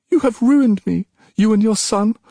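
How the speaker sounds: high, loud anguished fury; furious shout. Acted. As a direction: scream out her ruin. Princess rages at goddess.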